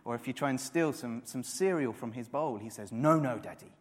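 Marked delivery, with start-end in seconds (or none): 2.9-3.7 put-on loud, insistent little boy's no, no; a small boy's firm double no; toddler protest. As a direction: stamp it out like a serious toddler. Toddler son protesting, voiced.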